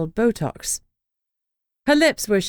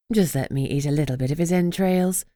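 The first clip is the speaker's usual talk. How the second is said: plaintive begging; 2 semitones lower than usual. Acted. Esme begging to eat Rain's entrails, plaintive. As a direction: beg like a child for a treat. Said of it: "Esme begged plaintively".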